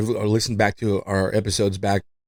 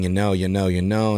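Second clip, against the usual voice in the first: mock repeated you know; 2 semitones lower than usual. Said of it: "it's super annoying".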